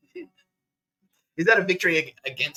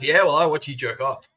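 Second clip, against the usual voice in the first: mock taunt; 4 semitones higher, 7 dB louder than usual. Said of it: "brag to him about it".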